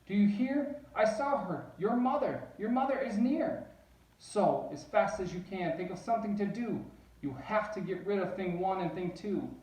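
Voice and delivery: high and loud, rushing in alarm; a frantic fish warning that mother is coming; high loud fish panic; panicky fish. Acted. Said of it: "our fish shook with fear".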